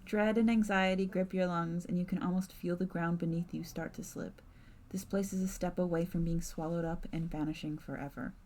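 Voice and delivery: measured narrator voice; story narration. A narrator's reading. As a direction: set the scene like a storyteller. GM narrates scene.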